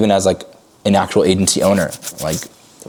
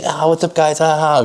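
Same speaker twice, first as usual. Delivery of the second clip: bouncy hyped-up greeting with a laugh, higher; old high-energy self; 8 semitones higher than usual. Shown as a demonstration. Coach imitating his old hyped-up phone greeting, higher and bouncy. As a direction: play the cool, funny, easygoing guy. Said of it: "I used to be very, like, high energy".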